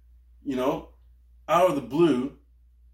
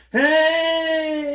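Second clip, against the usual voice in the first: high loud greeting shout; high excited shout; 7 dB louder than usual. Retold or imitated. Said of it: "he goes".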